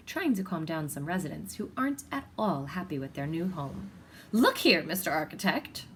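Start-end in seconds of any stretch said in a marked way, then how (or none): 4.3-5.9 loud, indignant call; indignant lady. Acted. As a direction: demand the architect's attention. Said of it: "says a lady".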